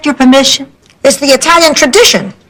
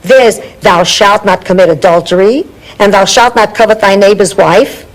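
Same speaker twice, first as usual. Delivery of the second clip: drowsy, half asleep mumble; barely awake at four AM; nodding off; 5 semitones lower than usual. Real, not acted. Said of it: "I can't talk to you when you're half asleep".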